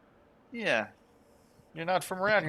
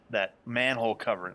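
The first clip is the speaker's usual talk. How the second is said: usual speaking voice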